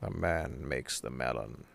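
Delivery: low, soft, solemn quote; a hint of an intoning sage; quoted line. Friend quotes a video, lightly solemn voice. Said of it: "another Unis Honest quote".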